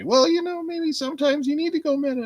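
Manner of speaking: put-on high, fast nervous boy; squeaky Morty; Morty impression.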